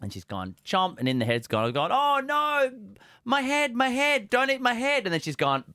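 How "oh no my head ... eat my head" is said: high squeaky panicked biscuit voice; tiny food voice. Acted. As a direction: squeal like a biscuit being eaten. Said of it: "do the voice of the food".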